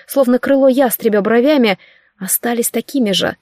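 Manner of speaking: usual speaking voice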